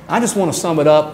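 fast, light Southern accent imitating the professor. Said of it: "t-, a Southern accent".

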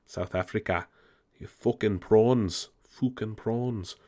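slow, mock South African accent; bad South African accent. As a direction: redo the terrible South African accent, dragging the prawns. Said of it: "terrible South African accent".

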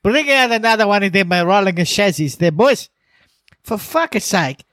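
exasperated groan, words dragged out; Pooh. Retold or imitated. Imitating the team boss after another crash, wearily exasperated. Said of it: "The Pooh just sitting there going".

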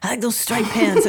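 lightly imitated jazzman; a hint of another man's way of talking; John Nelson. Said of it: "They both kinda talk like this".

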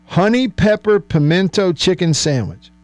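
savoured sandwich name. Shown as a demonstration. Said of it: "just listen to the sound of it".

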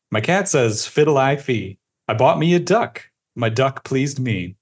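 measured sing-song nursery verse reading; poem recitation. Acted. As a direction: recite it line by line in a lilting rhythm. Reads the poem aloud.

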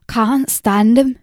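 plain, blunt and slow; matter-of-fact. Acted. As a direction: state it as simple fact. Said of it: "said the old woman matter-of-factly".

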